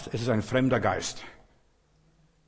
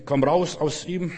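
slow, raised, stern order; Jesus casting out the spirit, stern; stern command; 4 semitones higher, 3 dB louder, slower than usual. Retold or imitated. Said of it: "ganz streng".

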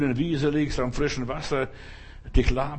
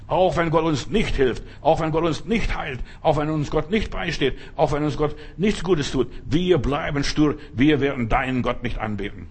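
rising, louder litany of defiance; stubborn vow of faith, preached louder; full-force preaching; 3 dB louder than usual. Acted. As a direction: hammer each "nicht" to the congregation. Preacher builds to a defiant climax.

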